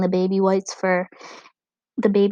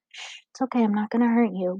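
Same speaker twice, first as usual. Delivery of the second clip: soothing; 2 semitones higher than usual. Acted. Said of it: "Gregor said soothingly".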